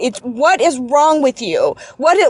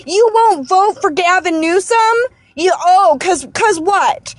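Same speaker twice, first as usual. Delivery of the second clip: real anger; 4 semitones higher than usual. Real, not acted. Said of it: "I'm so angry".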